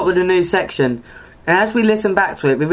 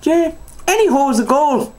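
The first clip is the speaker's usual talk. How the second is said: put-on slow, high, giggling drunk aunt; laughing through the punchline; 8 semitones higher than usual. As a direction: crack up while doing her voice.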